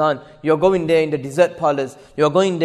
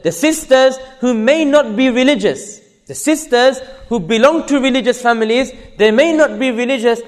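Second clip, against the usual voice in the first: higher, emphatic sermon delivery; impassioned preaching; 6 semitones higher, 5 dB louder than usual. Acted. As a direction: drive each phrase home to the congregation. Preaches with raised voice.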